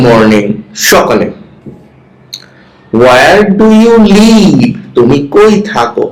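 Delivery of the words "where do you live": slow model reading. Shown as a demonstration. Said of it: "with proper stress".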